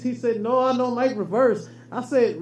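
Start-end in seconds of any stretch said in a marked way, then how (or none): 0.4-1.7 mock Mexican accent. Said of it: "my accent is great".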